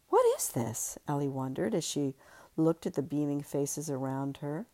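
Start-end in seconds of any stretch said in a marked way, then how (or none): 0.1-1.0 high, incredulous question; high disbelieving question; disbelief. Acted. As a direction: shoot up in disbelief. Ellie's disbelief.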